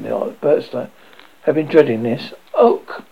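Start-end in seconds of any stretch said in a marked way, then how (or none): 2.6-3.0 ape grunt. Retold or imitated. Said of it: "a different inflection".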